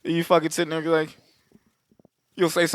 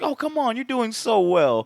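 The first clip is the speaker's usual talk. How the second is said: mock coaxing; 6 semitones higher than usual. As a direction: playfully imitate a taunting coax. Repeats the killer's mocking encouragement.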